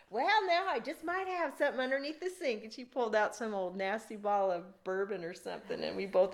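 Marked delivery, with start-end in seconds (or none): 0.1-2.6 drawling woman voice. Retold or imitated. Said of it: "And she goes".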